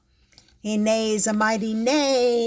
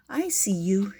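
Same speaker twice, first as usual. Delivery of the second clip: kitty whispering to unicorn. Acted. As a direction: whisper it like a treasured secret. Tender whispered recognition.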